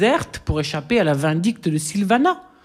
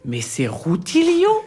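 much higher, slow, astonished; stunned; 10 semitones higher, slower than usual. A narrator's reading. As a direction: call out the name in disbelief. Découvre Rutilio. (stupéfait, beaucoup plus aigu et lent)

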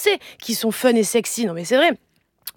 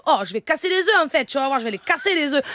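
put-on singsong accent of the South of France; southern French accent; 2 semitones higher than usual. Mum performs for the kids, southern French accent. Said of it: "maintenant l'accent du Sud".

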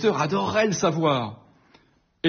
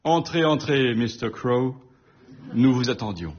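ton ironique. Acted. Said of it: "dit d'un ton ironique".

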